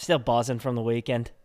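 light accent, somewhere between Boston and Australian. Shown as a demonstration. Husband replaying his odd line for wife, Boston-like accent. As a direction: repeat it in a vague Boston accent. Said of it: "It sounded a little Boston".

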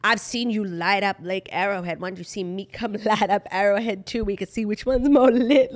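mock his cringey, slurred delivery; lightly mocking impression, words running together; cringe Travis imitation. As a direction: imitate him talking in cursive. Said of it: "that's not how he said it".

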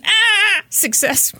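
high chirpy dolphin squeak; dolphin impression. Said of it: "That was my dolphin impression".

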